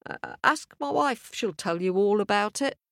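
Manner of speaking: hesitant farmer on the spot; stuttering farmer. Acted. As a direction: pass the question on nervously. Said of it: "stuttered the farmer".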